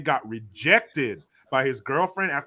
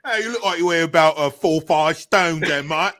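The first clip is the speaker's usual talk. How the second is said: louder put-on British bloke; cheeky British caricature; mock British accent; 2 semitones higher, 6 dB louder than usual. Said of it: "Why do you sound like this?".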